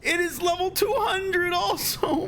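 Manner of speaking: high, near-crying complaint; frustrated whine. Real, not acted. Streamer lamenting the missing conduit, whiny near-tears. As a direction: whimper out the loss, half sobbing. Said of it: "I'm fucking annoyed".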